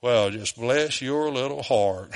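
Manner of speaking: pat them on the head with a drawled Southern sigh; Southern bless your heart. Retold or imitated. Preacher to congregation, teasing the Galatians in a slow Southern drawl. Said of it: "How would we say it here in the South?".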